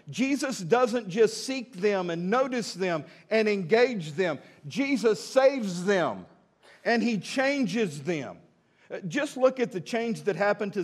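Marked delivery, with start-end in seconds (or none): 0.1-8.4 preaching. Acted. Preaching emphatic slow build.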